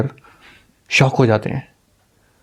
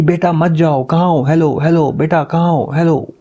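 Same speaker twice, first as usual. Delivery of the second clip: calling out; 4 semitones higher than usual. Acted. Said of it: "Alex इधर से चिल्लाता रहता है".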